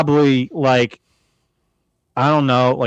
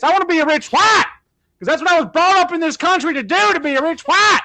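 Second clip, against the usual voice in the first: lightly voiced earnest boy, rising steadily higher and faster; mock churchgoing son; 4 semitones higher than usual. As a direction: plead to Mama with growing zeal. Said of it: "that's what those kids say".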